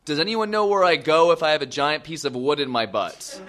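mild mock yell to a room; retold yell. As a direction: call it out, half-shouting. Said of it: "so I just yell out".

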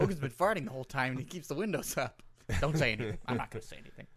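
low hushed voice; hushed mock whisper. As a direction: whisper it so Hogan won't hear. Samoans whispering in the car.

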